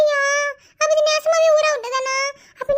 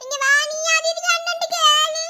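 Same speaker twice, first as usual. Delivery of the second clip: put-on whiny tearful kid begging for the ball; crying child. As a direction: sob and whine for the ball. (பந்துக்காக அழும் குழந்தை, சிணுங்கலாக)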